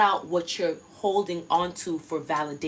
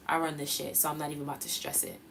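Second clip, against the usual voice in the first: low, quiet and calm, unbothered; calm quiet self-affirmation; said very calmly; 4 semitones lower, 7 dB quieter, faster than usual. Shown as a demonstration. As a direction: state it calmly like a fact. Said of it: "Very calmly".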